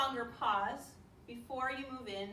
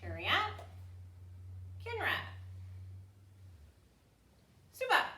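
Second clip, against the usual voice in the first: sharp martial arts commands. Acted. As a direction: call the bow-out sharply. Bowing out commands.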